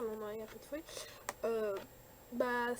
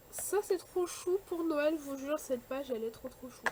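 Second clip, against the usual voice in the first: delighted gush; 3 semitones higher than usual. Real, not acted. Gushing over a cute Christmas page.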